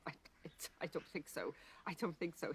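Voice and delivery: mild mock scoff, stumbling into it softly. Peter answering Jesus's prediction, lightly scoffing. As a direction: brush it off with a quick, quiet stammer. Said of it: "Peter kind of scoffs and goes".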